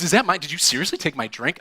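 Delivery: high, loud outraged demand; indignant accusation. Retold or imitated. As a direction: confront him over the stolen drink. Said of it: "She goes".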